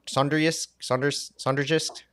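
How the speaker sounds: "Sonderjysk" tried haltingly, with a questioning rise; unsure stab at saying "Sonderjysk"; attempted pronunciation. Real, not acted. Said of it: "you did attempt it".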